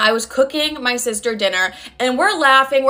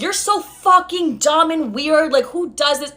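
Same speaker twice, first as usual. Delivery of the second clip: retold exasperated outburst, pitched up; pissed off; 4 semitones higher, slower than usual. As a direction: lean slowly on the insult in mock outrage. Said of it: "I'm getting pissed".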